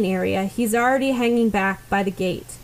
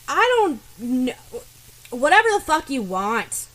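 higher, snappish and irritated; snapping; 4 semitones higher, 4 dB louder than usual. Acted. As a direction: bite the words off at her. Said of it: "Bakugo snaps".

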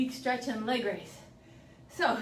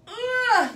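effort grunt; 9 semitones higher, 8 dB louder than usual. Real, not acted. Grunting mid-workout.

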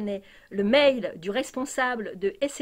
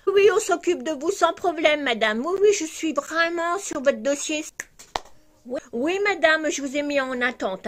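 higher, sing-song fake-polite agent voice, a bit louder; mock call-centre agent; 6 semitones higher, 4 dB louder than usual. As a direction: parody the sugary helpline operator.

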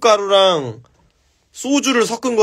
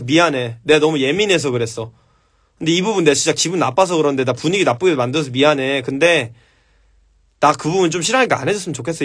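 soft apology demo; 3 semitones lower than usual. Shown as a demonstration. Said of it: "이렇게 하고".

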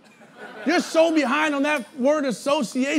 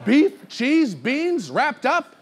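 mocking recap; 2 semitones higher, much slower than usual. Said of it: "go like this, like we don't get it".

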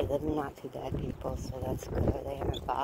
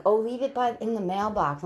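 mock buyer; 8 semitones higher, 5 dB louder than usual. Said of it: "They're like".

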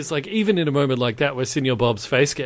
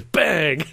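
short mock gunshot, a little raised; imitated gunshot; 4 semitones higher than usual. Man turns around and shoots, mock gunshot bang. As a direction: fire off a pretend "bang".

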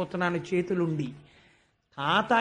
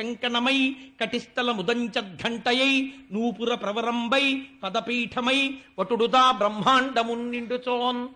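poem recitation; 3 semitones higher than usual. Acted. Storyteller opening the Vamana episode, chanting the verse. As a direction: intone the padyam like a temple reciter.

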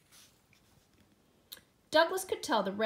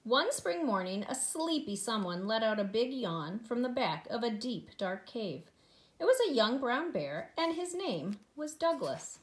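storybook narration. A narrator's reading. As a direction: read aloud to preschoolers, lively and measured. Reads picture book to children.

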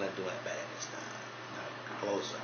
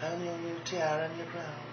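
lightly higher, soft pageant-queen voice; Mercedes impression; 8 semitones higher, 5 dB quieter than usual. Pageant queen Mercedes thanking fans, lightly higher and soft. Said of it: "we got Mercedes Ellis Del Rio".

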